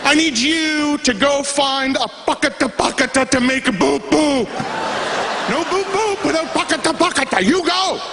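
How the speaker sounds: high-pitched exasperated outburst; strained, high mock tirade with babble words; mock yelling. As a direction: act out yelling at someone who can't understand you. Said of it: "I start yelling at him".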